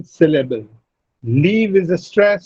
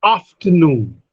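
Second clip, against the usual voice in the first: "Afternoon" with a strong falling NOON; stress on third syllable. Shown as a demonstration. Teacher models "Afternoon" for students, stressing NOON. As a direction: land firmly on the last syllable of "Afternoon". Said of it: "Primary stress is on afternoon, noon".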